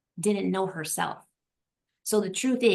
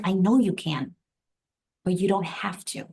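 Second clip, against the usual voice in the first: imitating his calm, unhurried reassurance; calm husband. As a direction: quote him evenly, without any push. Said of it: "the man is just so calm".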